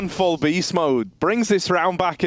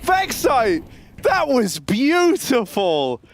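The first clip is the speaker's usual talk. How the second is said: excited caster call; 4 semitones higher, much slower than usual. Real, not acted. Caster hyping a clutch round.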